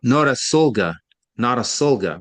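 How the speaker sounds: Notasulga said carefully, no-ta-SUL-ga; careful repeat of Notasulga; correcting a name. Shown as a demonstration.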